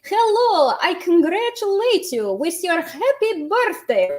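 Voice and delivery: a lightly voiced friend calling to say happy birthday; imitating Russian friend. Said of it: "would call them every year on their birthday and say".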